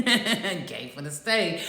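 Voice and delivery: slow, laughing through the punchline. Real, not acted. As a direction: chuckle the words out slowly. Joke told while laughing.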